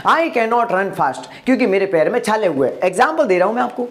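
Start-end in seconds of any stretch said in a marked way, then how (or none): 0.1-1.3 slow, careful English sentence; slow model sentence. Shown as a demonstration. Teacher models the English sentence slowly for students. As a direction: say each word slowly for the class to copy. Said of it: "तो मैं क्या बोलूंगा?".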